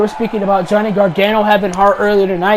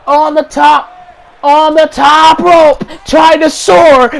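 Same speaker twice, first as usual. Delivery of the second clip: rising excitement; 3 semitones higher, 3 dB louder, slower than usual. Real, not acted. Wrestler climbs top rope.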